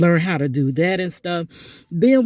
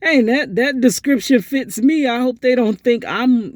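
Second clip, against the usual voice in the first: retold worry; 6 semitones higher, 4 dB louder than usual. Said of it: "they were like".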